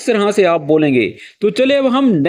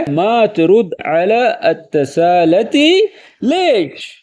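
mild annoyed question; much slower than usual. Shown as a demonstration. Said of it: "تھوڑا غصے میں ... سوالیہ انداز میں".

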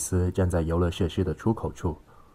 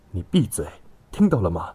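sharp, louder angry command; stern; 4 dB louder than usual. A narrator's reading. Violent passenger orders silence, stern. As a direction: shut someone up harshly. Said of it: "他厉声说道".

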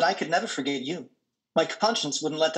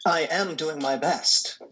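whisper; slower than usual. Acted. Ted falling apart under strain.

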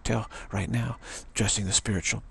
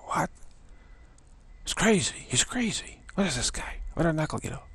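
mock outraged critic; 6 semitones higher than usual. Imitating critics gawking at him.

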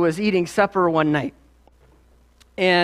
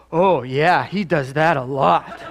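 lower, drawn-out mock realisation; mock big shock; 3 semitones lower than usual. Daughter learning what cussing means, mock shocked. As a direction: imitate a child's dawning shock. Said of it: "like, in big shock".

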